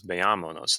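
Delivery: "veámonos" with the stress on "á". Shown as a demonstration. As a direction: lean on the "á" in "veámonos". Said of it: "There's an accent mark on that A".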